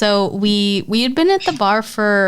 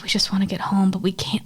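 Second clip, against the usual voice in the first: whispering; 2 semitones lower, 5 dB quieter than usual. Retold or imitated. Whispered worry over drunk kid.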